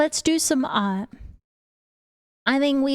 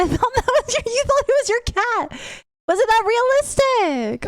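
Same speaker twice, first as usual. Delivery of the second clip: laughing disbelief; 8 semitones higher than usual. Real, not acted. Laughing at viewer's story.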